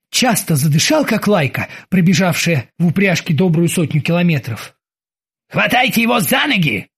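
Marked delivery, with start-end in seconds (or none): 5.5-6.9 ordering. Acted. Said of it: "приказал Оззи".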